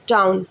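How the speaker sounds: टाउन with a clear aao glide; aao sound demo. Shown as a demonstration. Teacher models टाउन for students, aao glide. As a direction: say टाउन gliding from aa to oo. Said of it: "तो ये Thums अप आप इसको दे देंगे".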